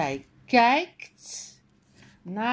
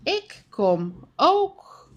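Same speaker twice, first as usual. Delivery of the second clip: called out; 6 semitones higher than usual. A narrator's reading. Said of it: "Zij roept".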